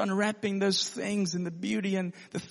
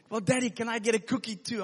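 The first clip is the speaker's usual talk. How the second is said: daughter asking; 7 semitones higher, faster than usual. Retold or imitated. Daughter voiced asking for cookie.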